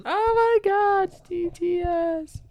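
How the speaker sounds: high excited intro. Acted. Show intro, high put-on voice.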